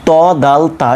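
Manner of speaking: ত, দাল, তা with tongue tip at tooth roots; articulation demo. Shown as a demonstration. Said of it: "জিহ্বার আগা দাঁতের গোড়ার সঙ্গে লাগিয়ে হচ্ছে".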